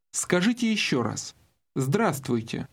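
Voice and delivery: usual speaking voice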